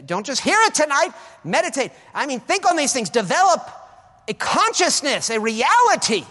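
loud, high sermon exhortation; full-force preaching. Acted. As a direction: drive it home to the congregation.

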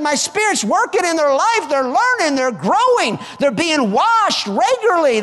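high, loud, jubilant voice of the Lord; the Lord speaking. Acted. God proudly telling the congregation his dream is coming to pass, exultant. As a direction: proclaim it as God rejoicing over his church. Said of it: "The Lord looks and says".

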